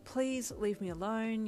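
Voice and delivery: slow, worn-out plea; exasperated. Acted. Overwhelmed student begs a classmate for space, exasperated. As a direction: drag it out, tired of everyone. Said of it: "allowing an exasperated expression".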